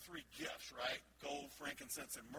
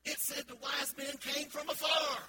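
slow, loud, higher, "afar" drawled like "a fire"; Southern drawl punchline; 8 semitones higher, 9 dB louder, slower than usual. Retold or imitated. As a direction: lean on the Southern "afar" as the clerk. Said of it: "she says".

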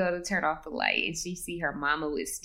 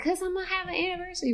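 quick, higher, airy mock mother; giddy mom; 10 semitones higher, faster than usual. Mother brushing off daughter's question, high and hurried. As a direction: rush it out, giddy and oblivious.

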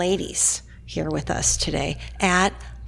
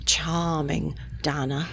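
smooth talker. Real, not acted. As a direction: whisper the praise like a schmoozer. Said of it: "talk in a charming voice".

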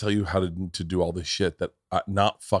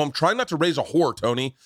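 higher, worked-up protest to a buddy; retold heated rant; 5 semitones higher than usual. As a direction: play the fired-up dad defending himself. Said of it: "calm down".

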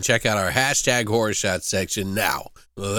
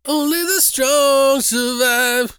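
slow, high movie-trailer announcement; dramatic trailer voice; 13 semitones higher, much slower than usual. Pretend. Naming the fighting movie, hammed up as a trailer voice. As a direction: boom it out like a fight-film tagline.

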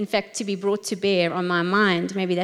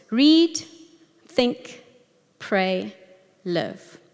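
each word set apart with a pause; four words, one at a time; much slower than usual. Shown as a demonstration. Teacher spelling out steps, each word apart. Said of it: "It's four words".

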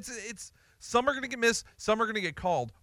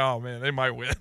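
laughing disbelief; 7 semitones lower than usual. Retold or imitated. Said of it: "I'm like".

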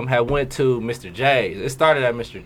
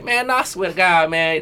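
lightly raised impersonating voice; a hint of his higher-pitched protest; Tweezy; 4 semitones higher than usual. Friend imitating a man still going on about it, lightly put-on higher voice. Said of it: "is that your Tweezy voice?".

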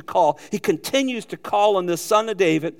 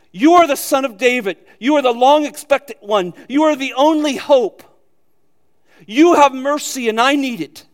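louder, raised, ringing declaration; fervent proclamation; 5 semitones higher, 5 dB louder than usual. Acted. A preacher voicing the blind beggar's bold cry to Jesus, fervent and louder. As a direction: cry it out like a desperate believer. Preacher voices Bartimaeus' confession.

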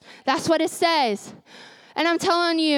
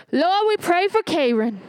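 grandma praying; 3 semitones higher than usual. Retold or imitated. Grandma praying aloud over the family, fervent. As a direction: pray for Karen like grandma.

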